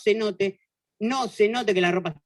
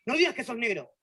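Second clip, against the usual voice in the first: indignant teacher; 4 semitones higher than usual. Retold or imitated. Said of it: "pero re indignado mal".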